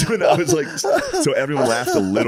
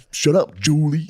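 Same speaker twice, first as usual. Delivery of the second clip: mock snap; 6 semitones higher, slower than usual. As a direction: snap it back at her. Repeated retort to lunch lady.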